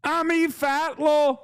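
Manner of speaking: high, laughing mock Middle Eastern accent. Shown as a demonstration. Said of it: "this is how people sound in the Levant".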